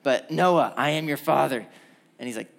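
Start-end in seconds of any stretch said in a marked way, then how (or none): 0.3-1.7 lightly voiced villain; mock-ominous call from hiding; a hint of a movie villain; Darth Vader. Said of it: "my Darth Vader voice".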